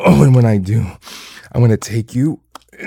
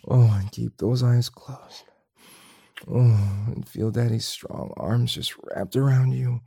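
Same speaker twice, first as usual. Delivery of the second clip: soft tender murmur; sweet nothings; 4 dB quieter than usual. Acted. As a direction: whisper tender reassurances.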